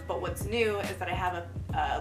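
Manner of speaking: ordinary delivery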